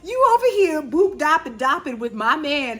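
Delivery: high, mocking voice, hammed-up; sassy Drew. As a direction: throw shade like a mocking diva. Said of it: "Drew was like".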